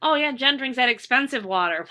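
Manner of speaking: high, loud mock admiring gossip; impressed onlooker. Imagined stranger admiring Jen, gushing and impressed. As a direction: play someone fooled by her water bottle. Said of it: "so I will look rich".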